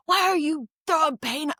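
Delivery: high squeaky cartoon bunny voice; dad hamming up a storybook scene; acted-out character. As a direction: squeal it like a wronged little bunny. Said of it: "act out this whole scene".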